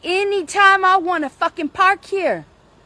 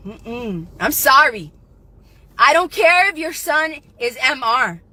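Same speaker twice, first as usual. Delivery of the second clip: ordinary talk, nothing marked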